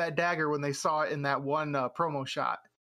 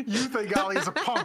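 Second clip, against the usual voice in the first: laughing; 4 semitones higher, 4 dB louder than usual. Real, not acted. Repeats the line, laughing.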